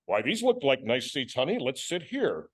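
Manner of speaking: lightly voiced square white guy, slightly drawn out; stereotype white guy. Husband picking seats for honey, mild white-guy stereotype. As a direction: imitate a polite, square husband. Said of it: "do a white guy, a stereotype of a white guy".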